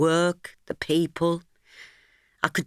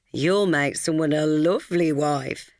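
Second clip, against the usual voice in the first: slow, playful needling; a friend gently teasing. Acted. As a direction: tease her sweetly. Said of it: "she teased".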